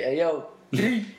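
high, slow street call; fan greeting. Retold or imitated. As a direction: call out like a fan spotting him. Fans greeting him on street.

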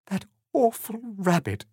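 high, wailing acted sob; tearful storybook Alice; sobbing. A narrator's reading. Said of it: "she sobbed".

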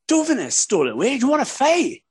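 put-on old geezer challenge. Old man in a bar squaring up to a teen, mock challenge. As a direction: pitch it up and push it like a pub tough. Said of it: "he went".

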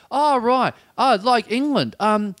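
high, over-familiar questioner; lucid weirdo. Retold or imitated. Weirdo quizzing a stranger on the tram, high over-familiar voice. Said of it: "the crazy girl goes".

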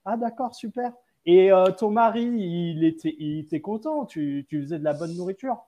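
a hint of a cheery interviewer. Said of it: "Et ça fait".

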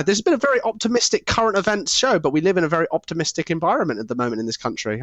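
mock-cheerful, lightly sarcastic; dry sarcasm, pretending to be upbeat. Real, not acted. Closing the show, mock-optimistic about politics. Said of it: "I'm being facetious and sarcastic".

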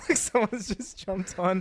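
high laugh, then slow words. Real, not acted. Laughing while telling the joke.

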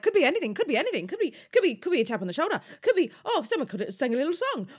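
high, loud, frantic rambling; a hammed-up nervous Miles spiralling; panicked Miles. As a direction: babble it in rising panic. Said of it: "Miles is like".

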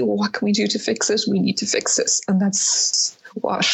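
trembling, barely holding it together; shaking. Real, not acted. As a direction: voice shaking with emotion. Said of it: "sorry, now I'm shaking".

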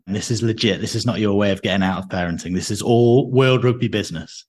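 echoey room sound; big hall echo. Real, not acted. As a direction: voice ringing in a tiled room. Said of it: "You sound all echoey".

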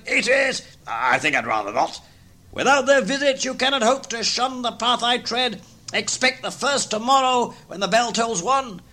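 high, hollow, mournful voices; ghost and terrified Scrooge. Acted. Marley's ghost laments his fate, high and mournful. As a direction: wail it like a lost soul.

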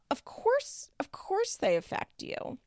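whispered sarcastic aside; mock whisper. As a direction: drop to a breathy, unvoiced whisper. Mocking Amber's reply, aside.

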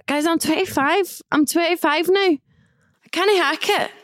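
mock despair. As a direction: play up being old and tired. Mock lament about getting old.

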